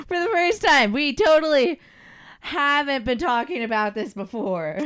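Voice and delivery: laughing sarcastic echo. Real, not acted. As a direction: say it dripping with irony.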